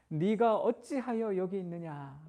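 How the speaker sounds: unhurried, caring voice, slightly slow; gentle, slowed question. Retold or imitated. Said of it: "그렇게 들려요".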